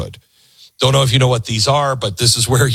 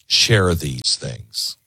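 earnest appeal; 6 semitones lower, slower than usual. Real, not acted. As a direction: lower your voice and plead slowly. Slow earnest closing appeal.

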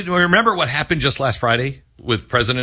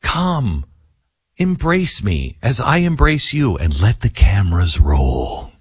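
grand invitation; 3 semitones lower, slower than usual. Retold or imitated.

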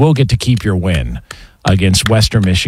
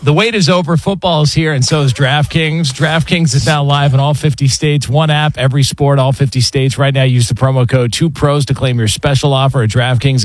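upbeat sponsor read, lightly raised; 4 semitones higher than usual. Acted. Host reading the DraftKings sponsor spot as an ad read. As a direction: pitch the promo code like a radio spot.

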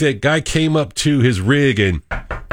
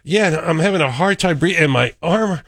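higher, overplayed suffering; hammed-up fake symptoms; 5 semitones higher than usual. Cohost voices the man faking worse symptoms, higher. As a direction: pile on fake complaints. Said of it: "He says".

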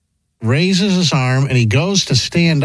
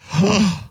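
sharp gasp of horror; shocked gasp; 5 semitones higher than usual. Real, not acted. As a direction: gasp at a gruesome sight. Seeing the bone in replay.

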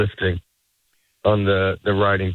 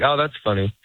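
"Oh, that's funny" tossed off a little quicker; dismissive quick. Shown as a demonstration. Comic showing how people fake it, quick and dismissive. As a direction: brush it off fast, like you don't mean it. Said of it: "You say a little bit quicker".

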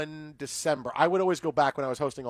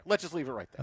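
softer, lower, muttered aside; quiet repeat; 4 semitones lower, 8 dB quieter, much faster than usual. Real, not acted. Host repeating himself under his breath to end the story, quieter. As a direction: drop it to a low mumble to yourself.

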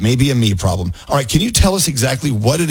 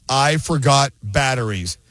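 slow, ominous ad read; slower than usual. Acted. Ad announcer, holiday dread warning: slow ominous read. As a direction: drag it out like a spooky warning. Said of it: "It's a singer".

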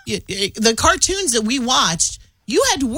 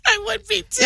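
higher, laughing agreement; 12 semitones higher than usual. Real, not acted. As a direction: giggle through it. Laughing along.

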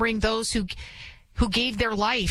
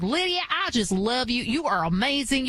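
put-on Southern accent; 3 semitones higher than usual. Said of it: "with the really thick Southern accent".

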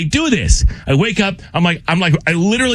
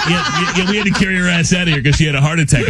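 laughing mock reply; faster than usual. Joking mock clerk.

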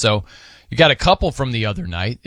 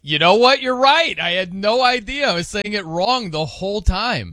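surprised admission; 6 semitones higher than usual. Retold or imitated. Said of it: "I'm like".

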